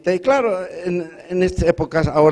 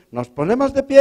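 intoned much higher, stretched out; priest's call; 10 semitones higher than usual. Retold or imitated. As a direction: sing it out like a priest. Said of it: "ha dicho el cura".

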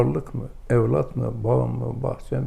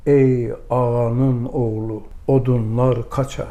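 mildly raised, drawn-out hawker's call; calling out loudly; slower than usual. Retold or imitated. Customer hailing a wood seller at market, mock calling out. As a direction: imitate someone calling out, stretching the opening words. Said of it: "birisi yüksek sesle bağırdı, dedi ki".

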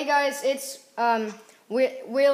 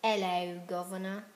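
lightly put-on British greeting; a hint of mock British; British accent. Shown as a demonstration. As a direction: do your best British accent. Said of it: "my best British accent".

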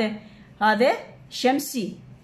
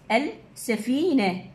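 slow demo word; much slower than usual. Shown as a demonstration. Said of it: "يقول ادخل اللام".

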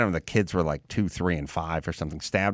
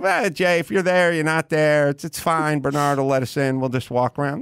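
himself, retold; 4 semitones higher than usual. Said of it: "And then I go".

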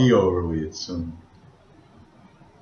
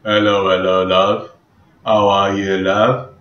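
a light, louder British accent, showing off; 4 dB louder than usual. Shown as a demonstration. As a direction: greet someone like a friendly Brit. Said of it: "let's do British".

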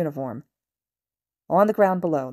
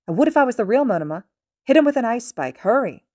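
urgent shout; 7 semitones higher, 7 dB louder than usual. Acted. Monoma urging attack.

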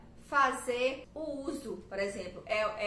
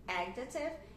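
adjective with AD stressed; first syllable carries adjective; 4 dB quieter, slower than usual. Shown as a demonstration. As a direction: model adjective as AD-jective. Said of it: "a primeira sílaba que é tônica".

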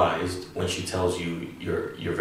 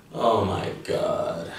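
slow; slower than usual. Shown as a demonstration. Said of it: "the same thing we can say in English".

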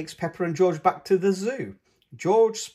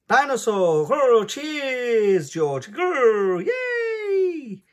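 higher, louder joyful growls; excited roar; 10 semitones higher, 6 dB louder, much slower than usual. A narrator's reading. Child finding the lost toy, excited cheering. George finds his dinosaur.

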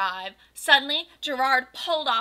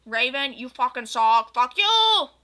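furious shout; 9 dB louder than usual. Acted. Goth girl cursing an expelled classmate, furious shout. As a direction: scream it out in mock rage.

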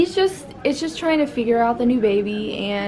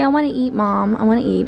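voicing the baby; 3 dB louder than usual.

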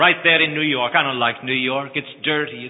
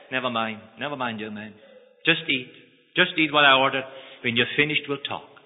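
calm reassurance. Acted. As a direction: hush him kindly. Lawyer calms the thief.

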